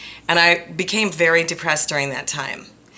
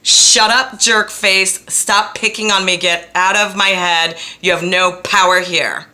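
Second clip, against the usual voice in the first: loud, higher defiant shout; telling it off; 4 semitones higher, 7 dB louder, slower than usual. Retold or imitated. Telling the mean voice in her head to shut up, loudly. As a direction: yell back at the bully inside you. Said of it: "I had to start saying".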